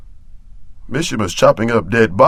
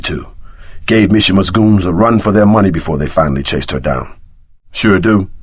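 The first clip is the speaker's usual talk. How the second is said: usual speaking voice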